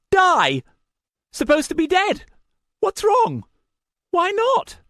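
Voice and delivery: high, loud, crazed accusation; snarling madman. A narrator's reading. Madman accusing the narrator: high furious snarl. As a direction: spit each word like a lunatic accusing.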